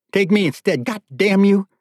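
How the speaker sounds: high-pitched, exasperated demand; angry plea. Acted. Father demanding captor take him instead, angry plea. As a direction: push the offer harder, cursing him. Father repeats offer, more forcefully.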